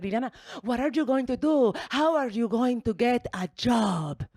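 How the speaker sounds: nervous mom. Retold or imitated. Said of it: "She always gets nervous".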